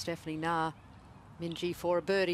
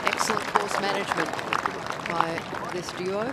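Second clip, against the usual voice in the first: excited; 3 semitones higher, 7 dB louder than usual. Real, not acted. Praising a great shot.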